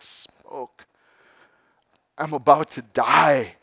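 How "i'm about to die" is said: raised, pleading snake voice; dying snake. Acted. Snake begging the youth on the peak, pleading. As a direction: beg as the freezing snake. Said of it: "said the snake".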